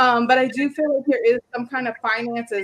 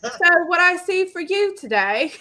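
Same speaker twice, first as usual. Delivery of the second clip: lilting, higher mock-British accent; put-on British accent; 6 semitones higher, 3 dB louder than usual. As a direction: do the reading in a playful British accent. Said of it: "just talking like that all day".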